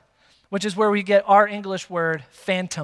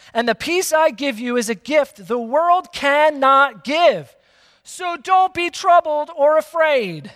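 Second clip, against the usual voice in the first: higher, slow, weighty proclamation; emphatic scripture reading; 6 semitones higher, slower than usual. Acted. Preacher reads Jesus's promise to congregation, emphatic and slow. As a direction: read the verse out with deliberate force.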